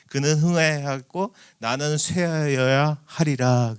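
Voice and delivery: slow, measured verse reading; solemn recitation; scripture recitation. Shown as a demonstration. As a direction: read the verse slowly and solemnly. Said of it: "그래요".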